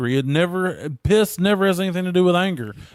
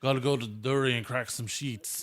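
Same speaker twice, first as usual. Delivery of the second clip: Australian accent; 3 semitones lower, 11 dB quieter than usual. Shown as a demonstration. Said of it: "let's try it again".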